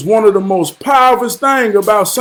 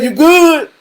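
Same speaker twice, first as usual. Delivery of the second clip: high friendly question; 9 semitones higher than usual. Retold or imitated. Asking the kid.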